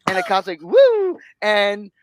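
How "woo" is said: high, loud whoop of a cop; mock cop whoop.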